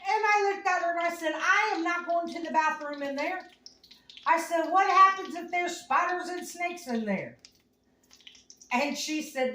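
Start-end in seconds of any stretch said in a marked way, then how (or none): 1.4-3.5 put-on high, frightened little-kid voice; scared child refusing. Scared child telling mom she won't go in. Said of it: "so scared". 4.7-7.4 put-on high, worried child's question; scared child asking. Scared child asking mom about spiders and snakes. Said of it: "so scared".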